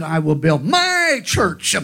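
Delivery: slow, with my pressed hard; stress on my. Shown as a demonstration. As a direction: land on the word my. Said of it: "which word he placed the most emphasis on".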